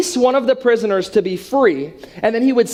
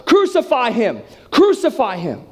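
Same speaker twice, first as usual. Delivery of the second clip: moderately raised mock mob shout; crowd shouting; 4 semitones higher than usual. Crowd answers the judge, acted shouting. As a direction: chant it as an insistent crowd. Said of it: "And they shout all the louder".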